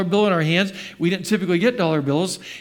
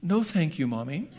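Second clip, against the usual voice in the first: put-on sweet child; 6 dB quieter than usual. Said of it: "she said very sweetly".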